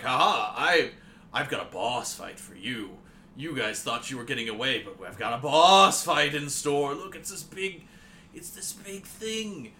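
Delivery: lightly hammed-up gloating villain, slow and drawn out; mock villain boast; villain announcing a boss fight. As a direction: taunt them like a game villain, swelling on the threat.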